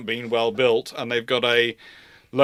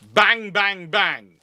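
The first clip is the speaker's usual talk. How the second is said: battleship gunfire; 8 semitones higher, 4 dB louder, much slower than usual. Retold or imitated. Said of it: "just gonna go".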